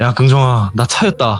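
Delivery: ordinary delivery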